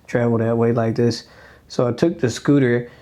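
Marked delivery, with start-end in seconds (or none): 0.1-1.2 mock thrilled tourist. Retelling her first day in Paris, mock thrilled. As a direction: play your past self delighted by a new toy. Excited tourist finding scooters.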